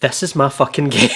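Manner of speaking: excited shout through laughter; laughing shout. Real, not acted. Thrilled about the game's tentacles, shouting with laughter. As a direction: blurt it out, laughing.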